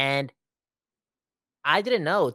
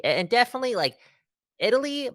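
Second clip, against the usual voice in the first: excited gush; 11 semitones higher, faster than usual. Real, not acted. Gushing about Italy's accent.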